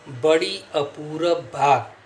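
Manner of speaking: बड़ी अपूरब बात drawn out slowly, verse cadence; slow doha recitation. Shown as a demonstration. Teacher reciting a Vrind doha to the class, slow verse reading. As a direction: recite the line like poetry, unhurried. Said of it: "देखिए".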